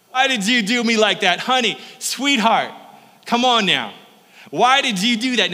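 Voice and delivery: high, loud whiny coaxing; hammed-up Delilah pleading. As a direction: plead with him like a sulky sweetheart. Delilah's mock complaint to Samson.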